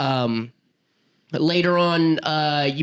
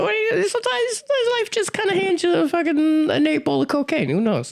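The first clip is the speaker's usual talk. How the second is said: mock stoner wisdom. Hammed-up stoner wisdom bit.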